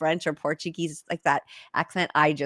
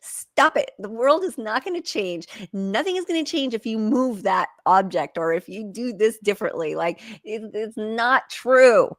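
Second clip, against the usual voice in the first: scolding herself; 2 semitones higher than usual. Retold or imitated. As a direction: tell yourself off, sharp at first then slowing. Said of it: "I'm really like".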